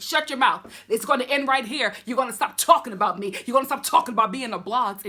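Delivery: hammed-up angry warning; mock angry Dorinda. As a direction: bark it like a furious guest at dinner. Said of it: "She's just like".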